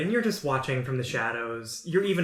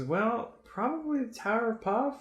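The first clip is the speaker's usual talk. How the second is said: barkeep; 2 semitones lower, 5 dB quieter than usual. Acted. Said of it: "And she goes".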